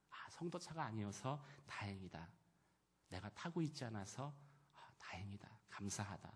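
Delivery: hushed, half-whispered words to oneself; murmured prayer. Retold or imitated. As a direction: retell a private prayer very softly. Retold private prayer of relief. (나직이 속삭이는 혼잣말 기도)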